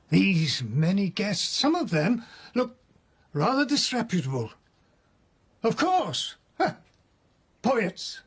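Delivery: animated, rising. Acted. Prisoner conjures imagined party scene.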